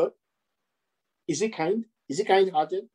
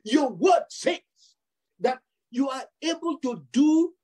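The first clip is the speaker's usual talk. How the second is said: bold prayer. Retold or imitated. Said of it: "So I come boldly to the throne".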